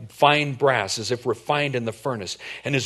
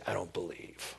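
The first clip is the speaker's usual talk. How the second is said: stubborn refusal; 6 semitones lower, 14 dB quieter than usual. Pretend.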